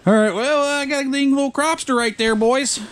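high, loud and thrilled; excited. Real, not acted. Angler tells the boys about his catch, thrilled. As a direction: show off the little catch.

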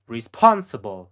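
slow whispered "Responsible."; voiceless and drawn out. Shown as a demonstration. Teacher whispering the word for the learner to copy.

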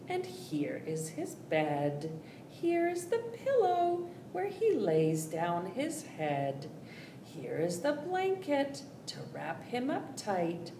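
soft, calm finger-play recital; gentle rhyme. Acted. Host reciting a bedtime finger rhyme, soft. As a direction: settle them down with a soft rhyme.

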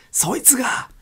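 sudden hushed whisper; whispered emphasis. Acted. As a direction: drop to a whisper on the last word. Wilson hissing.

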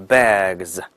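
"bags" slowly, ending in a voiced "gz"; 词尾发z. Shown as a demonstration. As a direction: model "bags" with g running straight into z. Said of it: "直接读成z这个音啊". ("bags"慢读，g后直接发浊音z)

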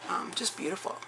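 slightly scratchy throat. Real, not acted. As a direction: speak through a scratchy throat. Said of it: "Pardon my scratchy voice".

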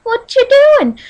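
playful mock chit-chat, voice popping up high; lightly hammed-up hello between pals; acted casual greeting. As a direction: act out greeting a friend. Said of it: "And you're like".

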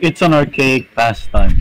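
slow, mocking quote of archaic pastime. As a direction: drag out archaic pastime snootily. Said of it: "It's like".

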